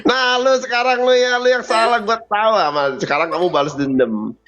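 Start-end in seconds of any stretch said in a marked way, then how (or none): 0.0-2.5 accusing voice. Retold or imitated. Acting out an accusing partner.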